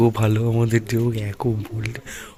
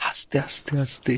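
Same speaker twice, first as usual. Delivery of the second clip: whisper; 4 semitones higher, 5 dB quieter than usual. Real, not acted. Sneaking near sleeping sister.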